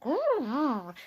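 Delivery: a medium-sized growl; Mummy Bear growl. Acted. Mummy Bear growls at Goldilocks, milder growl. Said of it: "Mummy Bear went".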